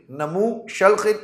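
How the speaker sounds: Namu Shalkhin sounded out slowly; slow pronunciation of Namu Shalkhin. Shown as a demonstration. Teacher showing viewers how it is pronounced, Namu Shalkhin said slowly. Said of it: "इसका तलफ़ुज़ जनाब ऐसे बनेगा".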